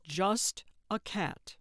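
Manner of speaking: panting, slow words; out of breath. Acted. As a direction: catch your breath between words. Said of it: "panting and leaning".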